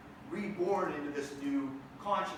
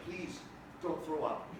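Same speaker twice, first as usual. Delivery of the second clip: hushed, barely holding it in; soft nauseous whisper-plea; quiet queasy plea; 3 semitones lower, 6 dB quieter, slower than usual. Retold or imitated. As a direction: murmur it like you might be sick. Fighting nausea, pleading quietly.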